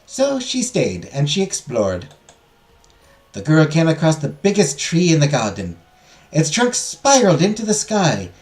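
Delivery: measured, lilting legend narration; storytelling teacher. Acted. Teacher tells students of the forbidden garden, storytelling. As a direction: tell the legend to a class with care.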